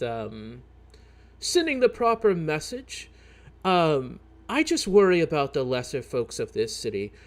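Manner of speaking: hesitant, halting shopkeeper voice; a nervous townsman asking a favor; worried shopkeeper. Acted. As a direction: fret politely as a troubled merchant. DM voicing a worried shopkeeper NPC.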